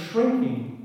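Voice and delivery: "shrinking" said with pointed emphasis; stress on shrinking. Shown as a demonstration. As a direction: lean on the word "shrinking". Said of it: "I emphasize the word shrinking".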